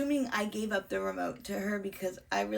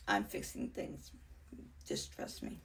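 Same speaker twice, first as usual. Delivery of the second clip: low, softer whisper; hushed reassurance; 13 semitones lower, 7 dB quieter than usual. Retold or imitated. Answering the worker in a secretive whisper. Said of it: "And I'm like".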